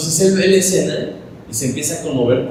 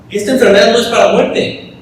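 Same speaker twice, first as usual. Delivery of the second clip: emphatic proclamation; 9 semitones higher, 7 dB louder than usual. Real, not acted. Preacher proclaims Jesus' plan.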